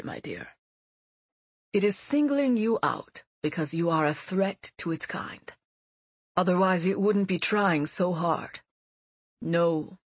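put-on a grave old teacher; old mentor voice. Mentor comforts Seti.

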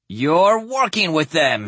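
high, alarmed accusation; accusing. Acted. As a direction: accuse them in rising panic. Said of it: "the doctor accused".

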